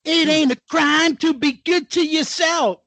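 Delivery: mocking echo. Co-host echoing a star's self-care tweet, mocking. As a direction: parrot the advice back with a touch of mockery.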